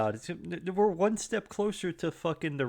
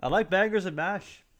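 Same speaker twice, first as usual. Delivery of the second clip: bad Irish accent; 5 semitones higher than usual. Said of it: "that sounded like Jamaican almost".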